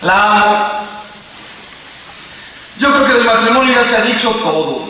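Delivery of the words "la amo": high, drawn-out retold plea; grito desesperado imitado. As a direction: plead with God as a desperate husband, re-enacted. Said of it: "la desesperación le hizo gritar". (súplica desesperada, aguda, imitada)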